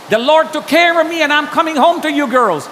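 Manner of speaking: high, loud, fervent declaration; emphatic reassurance. Retold or imitated. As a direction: insist to family that all is well. Reassuring wife he is alive.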